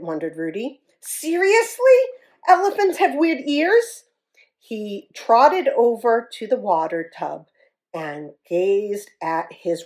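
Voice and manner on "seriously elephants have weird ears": high, startled disbelief; shocked. Acted. Elephant shocked to learn about his ears. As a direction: gasp it out in disbelief.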